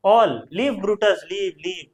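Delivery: slow, drawn-out crowd call; citizens urging Brutus on. Retold or imitated. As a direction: call it out slowly like a Roman crowd. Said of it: "बोल तो दिया है".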